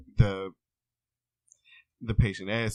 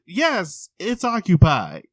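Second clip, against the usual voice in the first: higher, mildly put-on man's voice; hint of the man; 8 semitones higher, 6 dB louder, slower than usual. Man answering the patient from the stall, lightly voiced. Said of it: "He said".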